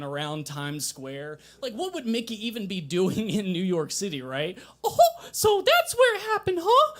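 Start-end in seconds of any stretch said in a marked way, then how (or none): 4.8-6.9 high, loud goofy cartoon dog voice with a laugh; cartoon goof voice, way up high; terrible Goofy impression. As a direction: ham up a silly cartoon dog. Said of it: "that's my terrible Goofy impression".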